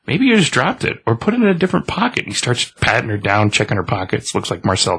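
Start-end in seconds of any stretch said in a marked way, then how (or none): 0.1-2.3 higher and fast, nervous babble; a lightly voiced panicky guy; flustered, worried. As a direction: rush it out, grasping for excuses. Eddie flustered about missing scythe.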